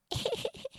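a quick high teasing laugh; mocking laugh. A narrator's reading. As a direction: laugh at him like the cocky hare. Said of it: "تو اس کا مذاق اڑانے لگا".

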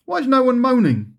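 high, amused bafflement; baffled disbelief. Acted. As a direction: ask it like you can't believe your luck. Ref baffled by quiet game.

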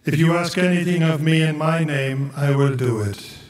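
measured, solemn reading of scripture; gospel proclamation. Acted.

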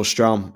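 Strom said as an English native speaker would; anglicised pronunciation. Real, not acted. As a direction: say Strom with English sounds, not Norwegian.

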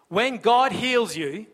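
very slow, deliberate phrase; slow right down on this; slow emphasis. Real, not acted. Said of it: "slowed repeated emphasis".

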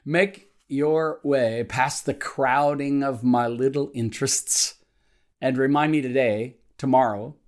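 measured devotional reading with deliberate pauses between phrases; slow prayer reading. Real, not acted. Pastor reading a morning prayer to devotional listeners, slowly and deliberately. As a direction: read the prayer slowly, setting each phrase apart. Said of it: "I'm gonna read it slowly".

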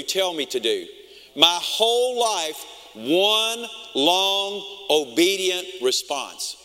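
slow, solemn reading of the psalm; scripture reading. Acted. Preacher reading Psalm 119 to the congregation, slow solemn reading. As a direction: draw each phrase out prayerfully.

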